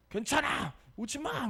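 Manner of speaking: high yelled warning; the trainer shouting down the older owner. Retold or imitated. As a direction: yell it sharply to stop him. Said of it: "막 소리를 지르는 거예요".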